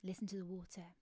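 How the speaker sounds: hushed, breathy invitation to listen. Acted. Narrator hushing a child by the bridge, whispered. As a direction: whisper it like you might scare the birds.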